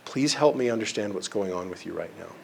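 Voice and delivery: kindly offered, low-key. Retold or imitated. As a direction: ask softly, with care for the other person. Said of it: "very kindly say".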